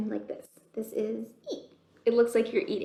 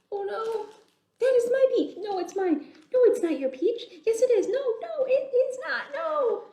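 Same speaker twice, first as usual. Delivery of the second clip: put-on higher, louder childish yelling match; squabbling shout; 10 semitones higher, 5 dB louder than usual. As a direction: fight over the peach, shouting. Bugs fight over the peach.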